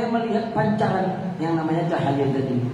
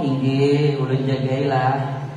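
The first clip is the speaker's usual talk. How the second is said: much lower, slow statue voice; talking statue; 8 semitones lower, slower than usual. Acted. The statue answers the priest's plea, low and slow. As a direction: rumble it out like a statue come alive. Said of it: "tiba-tiba patungnya ngomong".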